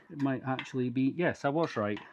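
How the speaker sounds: strained, straining under effort; grunting with effort. Real, not acted. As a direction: grunt through the words. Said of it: "always a bit of grunting".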